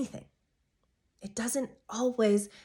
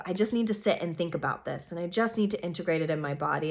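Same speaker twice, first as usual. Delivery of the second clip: lightly voiced Sagittarius; 5 semitones lower, 5 dB quieter, faster than usual. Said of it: "opposing energy of".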